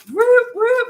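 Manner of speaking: high, loud whooping siren noise; imitated police siren. Reader showing everyone reacting to police arriving, mock siren whoops. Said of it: "I see, like, sirens".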